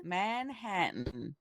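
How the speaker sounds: New Jersey accent attempt. Shown as a demonstration. Officer tries it again on request, attempted New Jersey accent. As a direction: draw out MANHATTAN, New Jersey style, sounding Southern. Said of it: "can you try it again".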